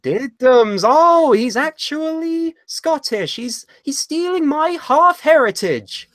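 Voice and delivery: high, slow whining mock voice; high whiny impression mocking Andy's outrage; whiny mockery of Andy. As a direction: mimic a crybaby friend in a high whine. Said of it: "I'm Andy Kwan".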